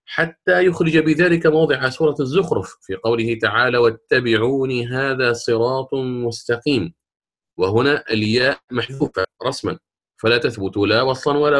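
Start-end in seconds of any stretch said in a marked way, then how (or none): 3.8-6.9 slow, level recital with long vowels; Quran recitation. Shown as a demonstration. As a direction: quote the verse as measured recitation. معلم يتلو آية مستشهدا. (تلاوة قرآنية هادئة الإيقاع)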